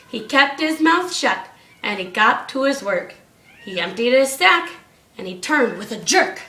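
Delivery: rhythmic read-aloud storytelling; bouncy storybook reading; story narration. A narrator's reading. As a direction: read the rhyme to the class. Reads rhyming Christmas story aloud.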